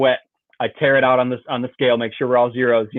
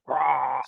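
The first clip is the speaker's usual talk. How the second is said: softer "rah" splash noise; imitated thrashing roar; 4 dB quieter than usual. Angler imitating the fish wallering, softened roaring noise. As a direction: mimic a fish thrashing across the surface.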